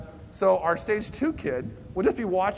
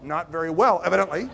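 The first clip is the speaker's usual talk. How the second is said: snarky retort; 5 dB louder than usual. Retold or imitated. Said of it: "give us a dirty look like".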